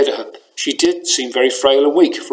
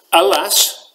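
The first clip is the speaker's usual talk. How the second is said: snorting mockery; 5 semitones higher than usual. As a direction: throw her own word back at her with scorn. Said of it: "snorted Frolix".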